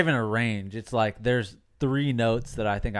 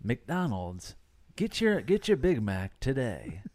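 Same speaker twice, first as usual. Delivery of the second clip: understated, softer ad read; lightly voiced fast-food commercial; a hint of smooth announcer pitch; 7 dB quieter than usual. Shown as a demonstration. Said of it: "commercial-like".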